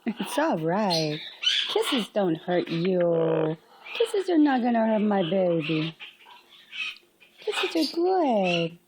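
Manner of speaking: soothing. Real, not acted. Soothing a scared bird.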